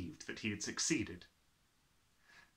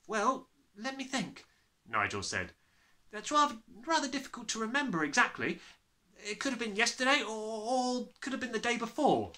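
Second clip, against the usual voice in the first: put-on boy's voice; 10 semitones higher than usual. Nigel thinking aloud.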